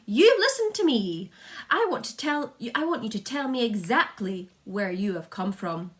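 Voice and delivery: very loud, high call upward; shouting through cupped hands. A narrator's reading. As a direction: bark orders up at the roof. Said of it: "shouted the chief of police, cupping his hands".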